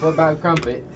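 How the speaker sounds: put-on high, loud hammy British accent; cartoon British accent, loud and high; fake British accent. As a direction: belt it in an over-the-top British accent. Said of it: "'Cause you sound atrocious".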